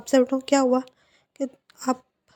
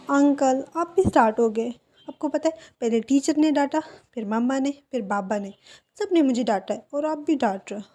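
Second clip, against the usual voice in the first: pouting complaint; 2 semitones higher than usual. Acted. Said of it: "अपना मुँह लटकाते हुए कहते".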